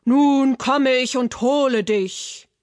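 lightly voiced troll threat; a hint of a menacing troll, pushed at the start; troll calling out. A narrator's reading. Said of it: "rief der Troll". (leicht gespielte, drohende Trollstimme)

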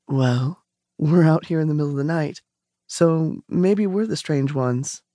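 calm her down without any rush; nice and calm. Acted. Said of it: "Nice and calm".

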